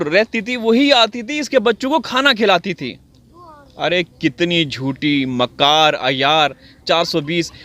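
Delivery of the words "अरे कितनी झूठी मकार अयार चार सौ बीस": scornful insults. Real, not acted. Scorning Seema as liar.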